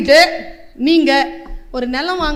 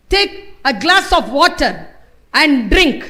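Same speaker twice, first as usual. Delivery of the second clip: very slow, higher and louder stern command; stern device voice; 3 semitones higher, 3 dB louder, much slower than usual. Retold or imitated. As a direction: order them to sit, slowly. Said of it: "அவ்வளவு கடுமையா பேசுறா". (மிக மெதுவான கடுமையான கட்டளைக் குரல்)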